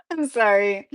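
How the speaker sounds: sorry through giggles; real laughter, can't stop; laughing apology. Real, not acted. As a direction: apologize while still laughing. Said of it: "I'm laughing too much".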